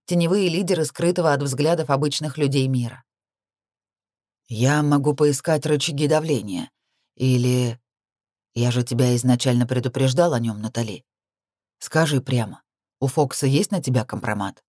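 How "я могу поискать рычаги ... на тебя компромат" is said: a hint of a concerned man, low-pitched; lower-pitched male character, mildly cautioning; lightly voiced male confidant. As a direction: voice him low and restrained. Voices Witham in dialogue.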